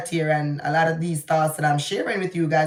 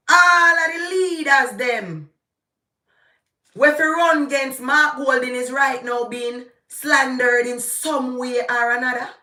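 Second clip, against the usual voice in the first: shouting in frustration, near tears; raging at the leaders being slandered; angry rant; 4 semitones higher than usual. Real, not acted. Vlogger shouting to viewers about slandered leaders, angry rant. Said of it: "Forgive me for that rant".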